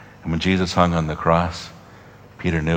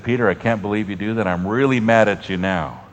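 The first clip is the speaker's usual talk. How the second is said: mock anger; 3 dB louder than usual. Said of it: "looked at him with anger".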